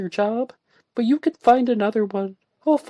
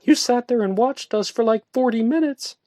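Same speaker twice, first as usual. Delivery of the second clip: high, loud indignant retort; 7 dB louder than usual. A narrator's reading. Woman snapping at her friend, indignant. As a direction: fire it back at him. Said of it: "she remarked".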